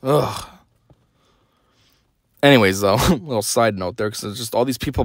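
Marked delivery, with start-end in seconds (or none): 0.0-0.5 exasperated groan. Real, not acted. Fed up after rant.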